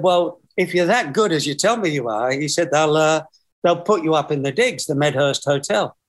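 put-on Middlesbrough accent, lightly done; hint of a Middlesbrough cabbie. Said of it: "Forgive my Middlesbrough accent".

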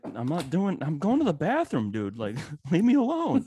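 mock annoyed protest; exasperated dad. Dad retelling snapping back at his son, exasperated. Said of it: "I was like".

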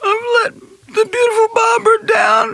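weepy confession; tearful. Acted. Maid confessing her failure on the phone, weeping. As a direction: let the tears colour every word. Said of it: "I'm very distressed".

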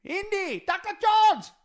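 put-on high, loud child's cry from the movie; Short Round shout. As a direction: squeal it like the kid sidekick. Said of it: "in that Indiana Jones".

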